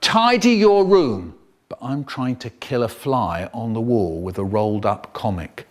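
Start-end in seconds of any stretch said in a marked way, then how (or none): 0.0-1.4 louder, slow parental order; nagging parent. Retold or imitated. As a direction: tell them off once. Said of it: "They say".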